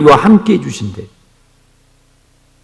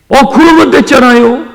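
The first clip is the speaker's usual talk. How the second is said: excited exclaim; 9 semitones higher, 7 dB louder than usual. Real, not acted. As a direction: exclaim 그러면 higher and louder. Exclaimed conclusion, then repeated plainly.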